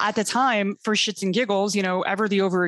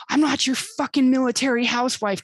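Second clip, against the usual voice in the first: retold outburst; 4 semitones higher than usual. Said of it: "I just raised my voice".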